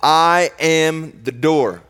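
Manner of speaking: slow, loud and lifted, every word weighted; ringing, slow proclamation; bold declaration. Acted. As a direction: proclaim it like a herald. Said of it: "Jesus makes this bold declaration".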